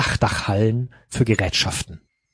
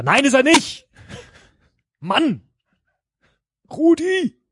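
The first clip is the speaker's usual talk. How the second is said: excited outburst; slower than usual. Real, not acted. Friends shout out a guess.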